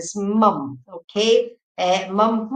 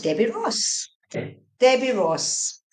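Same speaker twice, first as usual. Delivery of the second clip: slow, drawn-out calling of the name; 6 semitones higher, slower than usual. Real, not acted. Medium calling a spirit forward, slow and drawn out. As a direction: stretch the name out as if calling into the distance.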